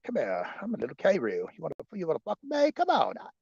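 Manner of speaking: fast, cocky challenge; little roo squaring up; tough kangaroo. Retold or imitated. Kangaroo daring someone to fight, fast cocky. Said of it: "I said".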